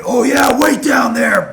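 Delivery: loud, high yelled threat; furious shout. Retold or imitated. Furious wrestler yelling at the prank caller, shouting. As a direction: roar it down the phone in a rage. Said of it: "Well, I flipped out".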